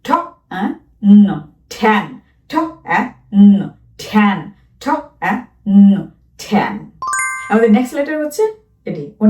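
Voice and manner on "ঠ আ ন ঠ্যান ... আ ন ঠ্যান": ঠ, আ, ন drawn out one sound at a time, then blended into ঠ্যান; slow sounding out. Shown as a demonstration. Teacher sounds out ঠ্যান slowly for children, then blends it. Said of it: "এটা আমরা বলবো".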